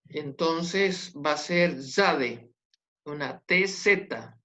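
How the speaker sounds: "zade" said slowly with a buzzing ts sound; teacher demonstrating "zade" slowly; slow sound demo. Shown as a demonstration. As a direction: drag out "zade" so students hear the ts buzz. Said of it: "Ese sonido no lo tenemos en español".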